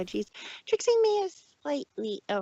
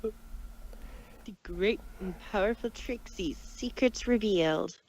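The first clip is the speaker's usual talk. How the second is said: reading a headline; 3 semitones lower, 3 dB quieter than usual. Acted.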